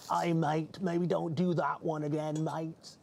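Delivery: lightly imitated Australian accent, "mate" drawn out; mock Australians telling him off in a mild Australian accent; a hint of an Australian accent, teasing. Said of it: "they're like".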